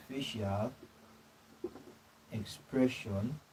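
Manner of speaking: drawn out so students can write; dictating slowly. Real, not acted. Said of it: "dictating notes to the class".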